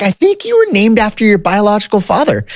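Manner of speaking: very high put-on mom voice; mocking mom voice. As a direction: squeak out mom's gentle reveal. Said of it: "she's like".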